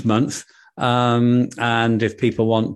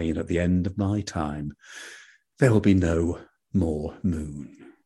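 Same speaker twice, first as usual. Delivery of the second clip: sad moon. Acted. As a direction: mourn being alone in the sky. Moon explains its loneliness.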